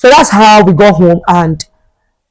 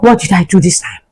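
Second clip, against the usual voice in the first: innocent protest; 3 semitones lower, 4 dB quieter than usual. Retold or imitated. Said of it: "I was like".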